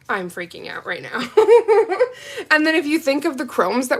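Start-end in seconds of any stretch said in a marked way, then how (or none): 1.3-2.5 loud high laugh. Real, not acted. Freaking out over nail colors, a loud high laugh.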